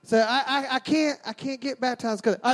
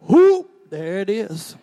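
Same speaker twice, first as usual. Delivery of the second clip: mock whoop; 2 semitones lower, 9 dB louder, much slower than usual. Friends seeing the baptism poster, mock whooping cheer.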